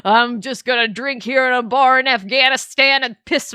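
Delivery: mock-gruff voice of a washed-up soldier; gloomy Chris. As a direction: grumble it like a self-pitying drunk hero. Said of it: "Chris is like".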